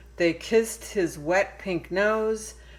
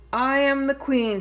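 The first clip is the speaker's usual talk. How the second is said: proud declaration; 7 semitones higher, 4 dB louder than usual. Acted. Lily declares herself queen.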